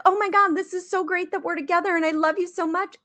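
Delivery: hammed-up adoring invitation; gushing prom invitation. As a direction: gush like a smitten teen, stretching the ending. Acting her gushing prom invitation.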